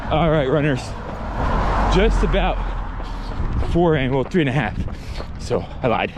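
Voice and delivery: talking mid-run, between breaths; while running. Real, not acted. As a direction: speak as if jogging on hills. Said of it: "taking some rolling hills".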